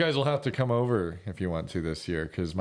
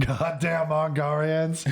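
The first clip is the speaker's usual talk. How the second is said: higher, drawn-out mock accented exclamation; South Park restaurant owner; 5 semitones higher, slower than usual. Guy quoting South Park's restaurant owner, drawn-out caricature. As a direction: draw it out like a cartoon restaurateur. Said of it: "the entire line is over and over again".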